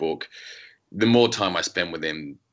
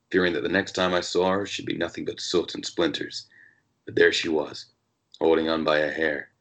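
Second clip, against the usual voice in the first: put-on American accent. Author reading his noir novel aloud in a light American accent. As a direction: read it as a world-weary American narrator, lightly done. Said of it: "I'm actually gonna do an American accent".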